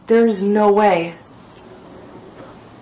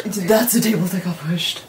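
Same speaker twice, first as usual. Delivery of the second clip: hushed, whispered echo. Real, not acted. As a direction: whisper it to the person beside you. Hushed echo during the investigation.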